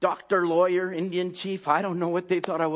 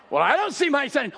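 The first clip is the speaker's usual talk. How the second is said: doubting reply; 5 semitones higher than usual. Retold or imitated.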